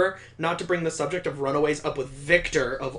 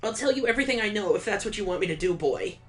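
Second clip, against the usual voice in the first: put-on higher, gushing eager boy voice; eager Victor; 5 semitones higher, faster than usual. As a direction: play a giddy date who can't wait. Voicing Victor in the game.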